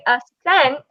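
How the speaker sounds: "accent" said as a-SENT, no K; ascent, no K sound. Shown as a demonstration. Classmate contrasting accent with ascent, no K sound. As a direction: drop the K from "accent", stress the end. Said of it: "if you say the word ascent".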